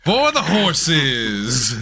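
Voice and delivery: very slow, drawn-out show title; announcer catchphrase. Acted. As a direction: stretch out the catchphrase. Host finishes drawn-out catchphrase.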